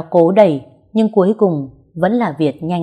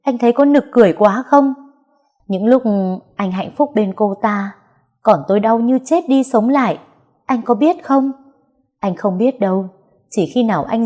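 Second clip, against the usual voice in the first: bitter reproach; 5 semitones higher than usual. Acted. Heroine's bitter outburst at lover.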